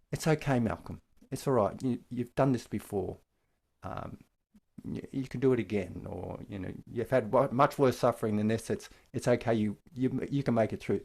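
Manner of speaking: gentle, kind reassurance; compassionate tone. Shown as a demonstration. Teacher shows the kind voice for oneself, gentle and reassuring. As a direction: soothe yourself kindly. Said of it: "my voice then is more compassionate".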